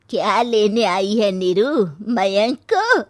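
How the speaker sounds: loud, slow, harsh challenge; angry mother-in-law. Acted. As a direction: confront her with contempt. Mother-in-law confronts Neeru.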